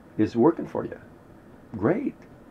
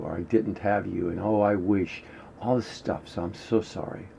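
heartfelt apology; 2 semitones lower, 4 dB quieter than usual. Shown as a demonstration. Teacher demonstrating, apologizing to confidence, softly remorseful. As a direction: pour out regret gently to the quality you want. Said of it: "But, but you do it like this".

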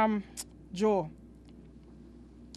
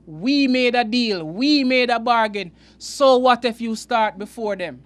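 God insisting to the grumbling workers, louder; firm, louder voice of God; 6 dB louder than usual. Acted. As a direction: declare it louder, laying down the deal. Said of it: "And God have to say".

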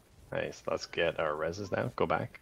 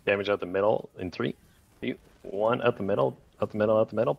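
loud call; 3 semitones higher, 6 dB louder than usual. Real, not acted. Shotcaller calling the push.

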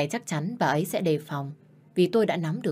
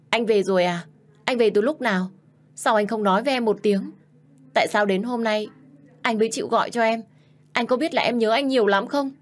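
emotional outpouring; 5 semitones higher, 3 dB louder than usual. Acted. Wife overwhelmed her husband called.

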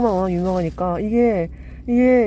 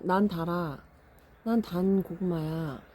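talking sweet potato; 4 semitones lower, 8 dB quieter, slower than usual. Acted. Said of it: "라고 이야기하는 것 같은 비주얼".

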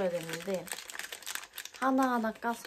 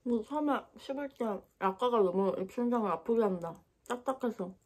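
talking between chews; muffled by chewy food; mouth full, chewing. Real, not acted. Seen 0: Bites pastry just before; jaw working, cheek bulging, hand on jaw while talking.

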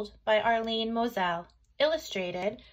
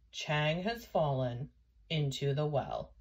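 put-on old man; 6 semitones lower than usual. A narrator's reading. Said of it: "said the old man with the ladder".

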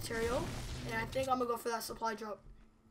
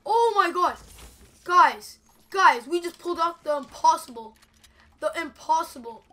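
much higher and louder, screaming with real disbelief; ecstatic victory screaming; 5 semitones higher, 13 dB louder than usual. Real, not acted. Streamer screaming to viewers after an impossible win, ecstatic yelling. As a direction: shout like you just won the impossible fight. Clutch win in battle royale.

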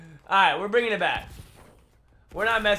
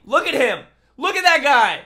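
higher, louder scolding; indignant call-out; 4 semitones higher, 4 dB louder than usual. Real, not acted. Gamer calling out a corner camper, loud indignant shout.

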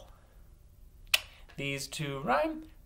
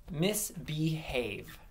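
"Misbehave" stretched over its three syllables; "Misbehave" slow, with each syllable distinct; slow clear word; 3 semitones higher, much slower than usual. Shown as a demonstration. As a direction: give "Misbehave" slowly for others to clap out. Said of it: "I'm gonna say a word".

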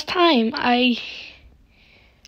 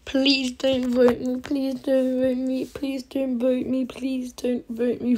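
softer, repetitive, even-pitched begging; quiet pleading; 5 dB quieter than usual. Real, not acted. Player begging not to be voted out, pleading quietly.

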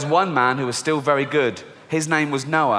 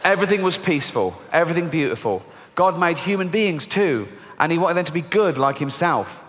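storybook reading. Acted. Reading the children's Bible aloud.

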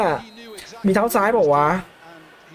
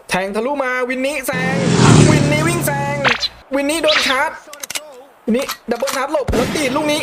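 higher-pitched, urgent match call; excited play-by-play; 6 semitones higher than usual. Real, not acted. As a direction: call the attacking run with rising urgency. Live play call, attack building. (พากย์เกมตื่นเต้น เสียงสูง)

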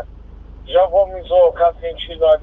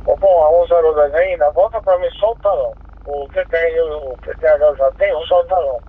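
crackly two-way radio transmission; squelchy handheld radio; police radio. Real, not acted. Patrol over radio.

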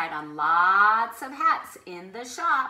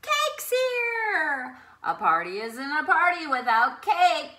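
cheering; 4 semitones higher, 6 dB louder than usual. Acted. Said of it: "they cheered".

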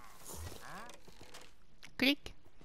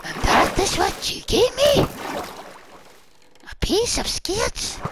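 much higher, louder incredulous squawk; mock outrage; 8 semitones higher, 6 dB louder than usual. Reacting to the cursed book in a shrill mock outrage. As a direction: squawk in disbelief.

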